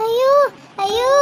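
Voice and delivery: acted weeping cry of woe; tearful lament. Distraught woman arriving at the bus stand, tearful lament. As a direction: wail it lightly, as if in tears. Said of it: "எதுக்கு மீனம்மா அழுவுதிய?".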